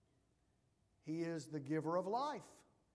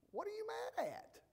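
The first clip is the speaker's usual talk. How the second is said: retorted question. Retold or imitated. Acted argument, his retort.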